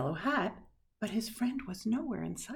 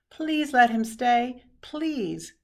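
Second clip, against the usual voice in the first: put-on children pleading; 5 semitones higher, 9 dB louder, slower than usual. A narrator's reading. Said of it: "the other children chimed in".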